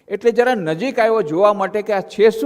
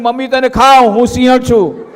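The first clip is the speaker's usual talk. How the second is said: playful lioness; 3 semitones higher, 7 dB louder than usual. Acted. Mock child threatening mom.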